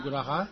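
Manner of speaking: 哈 gliding up to finish 格拉哈. Shown as a demonstration. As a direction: dip through 格拉, then lift 哈. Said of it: "这个要尾音要抬高".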